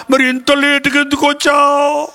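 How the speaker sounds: suspicious interrogation. Acted. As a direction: lightly act a suspicious interrogator. Acted interrogation by suspicious wife.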